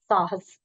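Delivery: साहस with a clear s at both ends; careful pronunciation. Shown as a demonstration. Teacher modelling a word from the lesson, साहस carefully articulated. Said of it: "का उच्चारण ध्यान से कीजिए".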